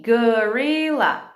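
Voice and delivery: GORILLA very slow, drawn out as go-ri-lla; syllable by syllable. Shown as a demonstration. Teacher giving a word to blend, slow syllables. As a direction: stretch GORILLA into separate syllables. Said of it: "Depois você faz as sílabas".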